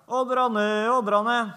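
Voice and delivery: sing-song holler with stretched vowels; calling out. Retold or imitated. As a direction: call the sheep across a field with long held notes. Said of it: "og så roper han".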